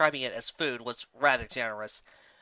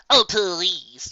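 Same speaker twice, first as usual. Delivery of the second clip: higher, louder scoffing interruption; lightly voiced Trixie waving it away; dismissive cut-in; 4 semitones higher, 8 dB louder than usual. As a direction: brush her off sharply. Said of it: "Trixie cut in".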